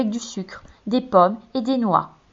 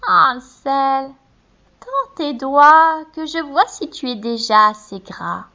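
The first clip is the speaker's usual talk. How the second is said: witch; 4 semitones higher, 4 dB louder, slower than usual. A narrator's reading. Witch at the stable.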